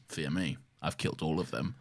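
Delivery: low, quiet counter-threat; understated Doctor retort. Retold or imitated. The Doctor answering House in a showdown, quietly menacing. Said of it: "the Doctor just goes".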